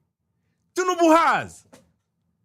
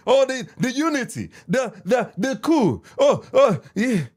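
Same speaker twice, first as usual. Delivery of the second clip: mocking a rascal; 2 semitones higher than usual. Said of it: "some rascal go to tell me".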